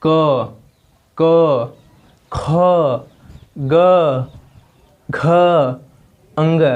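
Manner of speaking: क, ख, ग, घ each said alone, from the throat, with a pause after each; teacher sounding out क ख ग घ letter by letter; slow demo of velar sounds. Shown as a demonstration. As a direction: spell out क ख ग घ slowly, one by one, pushed from the back of the throat. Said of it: "ज़रा बोल कर देखिए".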